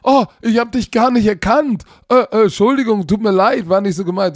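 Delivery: a hint of a sheepish old man; apologetic man. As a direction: stammer out an embarrassed sorry.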